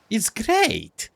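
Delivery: high, squeaky, chipper crab. Acted. Crab answering about crab life, squeaky voice. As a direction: answer as a happy little crab, pitched high. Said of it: "a squeaky voice".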